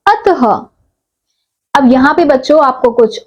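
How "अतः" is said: अतः with a breathy h at the end, pitched up; visarga word demo. Shown as a demonstration. Teacher revealing the blended word to students, clear demo. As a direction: say अतः as a clear model for the class. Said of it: "ये शब्द क्या बन गया?".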